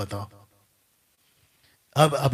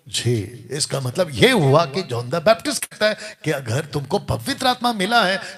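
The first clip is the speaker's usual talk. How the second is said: normal talking voice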